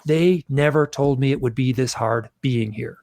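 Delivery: retold outrage, emphatic at first, then settling; furious protest. Recounting his hypnosis outburst at the beings, toned-down angry protest. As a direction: protest bitterly, imitating a scream without shouting. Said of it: "I'm screaming this. I'm swearing".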